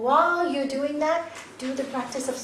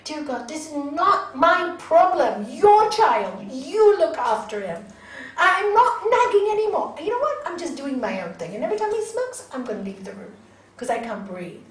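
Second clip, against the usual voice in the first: louder and higher, pleading with God; exasperated plea to God, raised voice; loud desperate prayer; 4 semitones higher, 6 dB louder than usual. Retold or imitated. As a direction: pour out a fed-up prayer at full voice. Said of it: "I prayed and I prayed and I prayed so hard".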